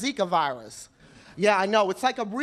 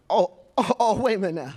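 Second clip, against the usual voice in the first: stammered, low start of disbelief; halting, pretend-offended challenge; mock affronted; 3 semitones lower than usual. Acts taken aback by the principal.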